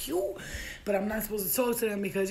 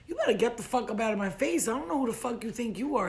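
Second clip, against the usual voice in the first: indignant comeback; 4 semitones higher than usual. Acted. Talks back to cursing soldier.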